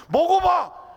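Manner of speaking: sudden high shout of encouragement; shouted urging. Acted. Preacher urging the congregation to taste aging, shouted. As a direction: burst out loud, coaxing.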